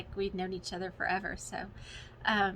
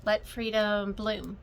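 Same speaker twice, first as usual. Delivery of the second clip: reading the title; slower than usual. Shown as a demonstration. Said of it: "this is by Shepherd's Bush".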